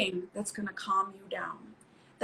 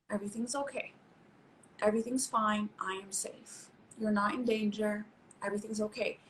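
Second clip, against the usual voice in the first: put-on reassuring inner child; 5 dB quieter than usual. Shown as a demonstration. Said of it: "talk to that inner child of yours and say".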